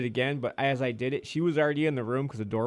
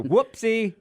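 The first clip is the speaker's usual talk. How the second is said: imitating sheepish coworker; 12 semitones higher, 7 dB louder than usual. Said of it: "he was like".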